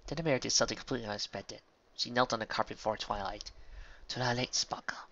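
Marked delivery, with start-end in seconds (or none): 4.1-5.0 hushed, solemn address; ceremonious. A narrator's reading. Mayor kneels before Twilight, ceremonious. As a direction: open a formal oath quietly. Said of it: "her voice taking on a ceremonious turn".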